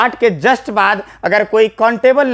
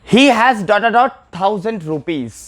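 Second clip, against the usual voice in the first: very slow, each word drawn out; slow dictation; much slower than usual. Shown as a demonstration. Teacher dictating a blank sentence to the class, very slow. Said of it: "जैसे मैं example ले लूँ".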